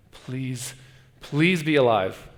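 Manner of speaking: slow, drawn-out plea; slow prayer-like begging; pleading. Acted. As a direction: stretch out the please, begging. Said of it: "I think he's pleading".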